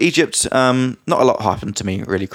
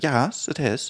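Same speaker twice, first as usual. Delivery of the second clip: brief imitation of a posh British accent; put-on posh British reply; 3 semitones higher, 4 dB quieter, much slower than usual. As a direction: lightly mimic a friend's posh British. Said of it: "speaking with a super posh British accent".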